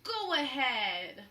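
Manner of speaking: slow, loud pirate growl; captain grudgingly letting Jack speak. Acted. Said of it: "growled Captain Bones".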